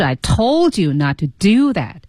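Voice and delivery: accent "told" and "do", the rest light; "told" and "do" punched, "not to" reduced; stress on told and do. Shown as a demonstration. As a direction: lean on "told", then on "do". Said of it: "这里就需要加重音".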